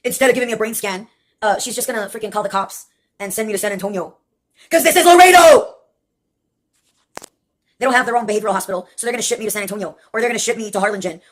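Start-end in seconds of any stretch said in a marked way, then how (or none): 4.7-5.8 higher and louder, leaning on Laredo; loud, fed-up cry about Laredo; exasperated outburst. Real, not acted. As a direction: throw up your hands about the town.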